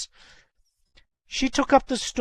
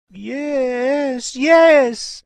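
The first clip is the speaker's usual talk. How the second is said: high cry building louder; startled recognition; 9 semitones higher, 9 dB louder than usual. A narrator's reading. Mother suddenly seeing her daughter's mole, agitated.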